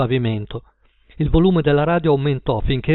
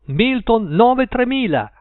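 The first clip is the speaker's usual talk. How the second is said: radio DJ; 9 semitones higher, slower than usual. A narrator's reading. Sam the Night Owl reminding listeners, DJ voice. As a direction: sell the number to the listeners. DJ repeats number.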